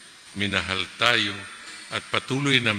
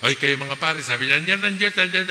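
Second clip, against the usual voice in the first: mock philosopher; 6 semitones higher, 4 dB louder than usual. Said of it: "Sasabihin naman ng mga pilosopo".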